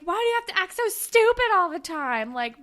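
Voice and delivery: high, loud imitated needling; mock provoking. Girl starts provoking him over acting dumb, mock needling. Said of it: "she starts provoking him and is like".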